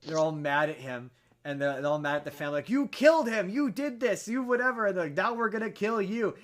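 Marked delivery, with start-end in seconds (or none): 2.7-6.3 high, loud mock accusation; imitating angry goblins, higher and louder; indignant goblins. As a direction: play the outraged goblins, hammed up. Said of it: "they get weirdly indignant".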